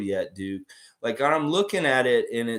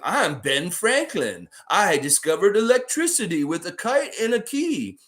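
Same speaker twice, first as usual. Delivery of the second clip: grand Ben Franklin introduction; 3 semitones higher than usual. Retold or imitated. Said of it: "He's like".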